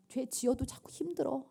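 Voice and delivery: breathy whisper of a weary sinner; hushed, worn-down whisper. Acted. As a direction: whisper it like a private confession. Preacher whispers inner struggle.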